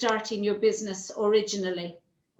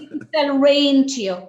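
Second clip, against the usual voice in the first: laughing; 3 semitones higher, 6 dB louder than usual. Real, not acted. Joking about selling rain.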